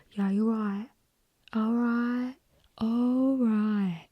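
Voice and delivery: Essex "all right", stretched out long; mock Essex accent. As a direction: suddenly come over all Essex, drawling it. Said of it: "they talk like they are from Essex".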